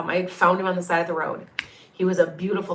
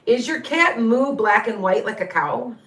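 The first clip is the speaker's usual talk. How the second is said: asked through a chuckle, a little higher; laughing question; 4 semitones higher, 3 dB louder than usual. Real, not acted. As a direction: laugh lightly while asking about the cow cat. Amused by the cat's name.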